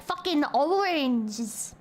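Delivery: slow, drawn-out mock British vowels. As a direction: stretch it out in a silly British accent. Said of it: "if it was the fucking British naming".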